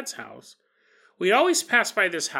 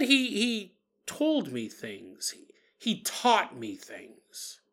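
slow, hushed wonder; 3 semitones higher, slower than usual. Retold or imitated. Adult Michelle recalls old man.

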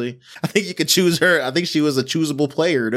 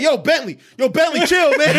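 raised, higher-pitched retold call; retold urgent call; 10 semitones higher than usual. Friend breaking up a fight, urgent retold call. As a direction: call out to a friend to stop him.

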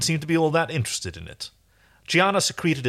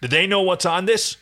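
higher, pressing question; insistent interrogation; demanding; 7 semitones higher, 4 dB louder than usual. A narrator's reading. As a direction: demand an answer. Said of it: "he demanded".

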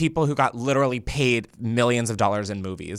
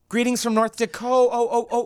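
high-pitched mock North Dakota greeting; North Dakota accent; 10 semitones higher than usual. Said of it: "She'll be like".

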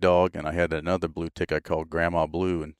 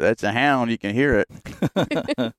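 slow; 4 semitones higher, much slower than usual. Retold or imitated. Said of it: "he said".

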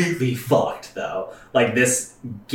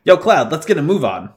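lightly voiced tough guy, louder; Barret voice; 5 semitones higher, 3 dB louder than usual. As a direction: read Barret's lines with swagger.

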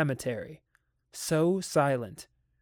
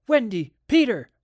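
put-on high, loud call for the children; 8 semitones higher, 7 dB louder than usual. A narrator's reading. Parents searching for their children, calling out. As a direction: call the names across the house.

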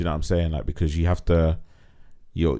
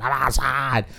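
imitating the girls; 7 semitones higher, slower than usual. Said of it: "We don't sound like that".

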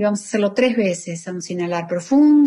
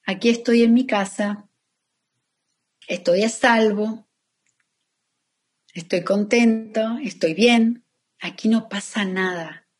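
calm affirmation. Shown as a demonstration. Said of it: "empiezas a darte cuenta y a decirte".

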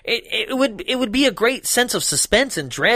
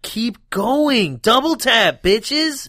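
urging; 6 semitones higher, much slower than usual. Retold or imitated. Yelling at horror survivors to finish the killer, a higher mock shout. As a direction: yell advice at the movie characters. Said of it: "I'm like".

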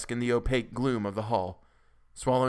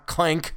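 higher-pitched metallic clank; imitated clank; 6 semitones higher, 4 dB louder than usual. A narrator's reading. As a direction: voice the basin hitting the floor. Imitates a falling metal basin.

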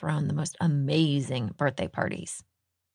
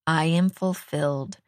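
measured, deliberate affirmation; mantra recitation. Retold or imitated. Host shares a meditation mantra with listeners, mantra recitation. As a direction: recite it as a mantra, pausing between phrases. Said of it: "Deepak Chopra's got this great mantra".

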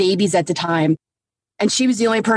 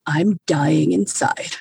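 retold blunt, lowered deadpan; deadpan retort; 3 semitones lower than usual. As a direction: answer the sponsor with no cheer at all. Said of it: "look her dead in the face".

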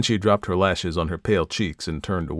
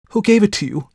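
much higher and louder, a jealous cry; 13 semitones higher, 8 dB louder than usual. A narrator's reading. Viola demanding who gave the ring, crying out loud. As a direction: hurl the question at her sister. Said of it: "cried the other".

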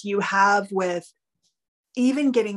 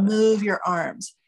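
slow instruction; slower than usual. Shown as a demonstration. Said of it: "Widen your field of vision".

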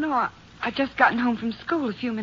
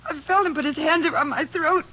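frightened, rising; 5 semitones higher than usual. Acted. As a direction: relive the hand closing on her throat. Victim relives being choked.

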